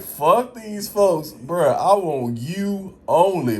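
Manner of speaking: imitating his old prayer, slow; retold desperate vow. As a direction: draw out the plea like you mean it. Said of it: "Bro, I'm like".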